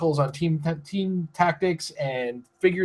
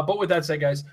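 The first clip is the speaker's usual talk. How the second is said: normal talking voice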